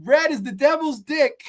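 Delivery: high-pitched mock cop voice; lightly voiced female officer; imitated policewoman. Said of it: "And she's like".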